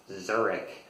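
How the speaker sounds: "Zurich" with a hard k ending, ZUR-ik; English-style pronunciation. Shown as a demonstration. Learner of German recalling a mispronunciation, "Zurich" with k. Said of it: "um, incorrectly".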